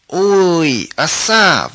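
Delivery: high, loud shriek; piercing scream. A narrator's reading. Stung girl shrieks in sudden pain. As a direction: shriek at the wasp sting. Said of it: "пронзительно закричала Оля".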